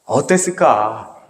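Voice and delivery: slow, pondering 어땠을까; slow, drawn-out question. Shown as a demonstration. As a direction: stretch 어땠을까 out slowly and let it hang. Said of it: "repeated rhetorical question, slowed".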